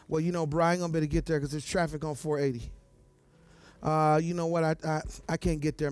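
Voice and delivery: low, fast lazy excuses; excuse-maker voice. Retold or imitated. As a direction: mumble excuses like a slacker.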